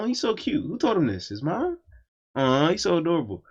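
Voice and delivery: put-on high, gushing baby-talk coo; cooing over a child. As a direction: coo at an adorable little kid. Cooing over a cussing little kid.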